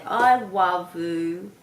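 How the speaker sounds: put-on slow childlike "I wuv-oo"; imitating a small child. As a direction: mimic a toddler saying I love you, slowly. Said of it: "heard kids say".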